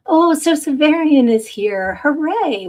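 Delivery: high, loud delighted greeting; real burst of excitement, high and loud; excited welcome. Real, not acted. Greets a regular joining the chat.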